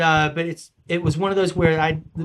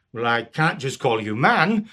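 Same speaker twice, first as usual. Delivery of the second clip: king; 3 semitones lower than usual. Acted. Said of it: "Englishmen walking up".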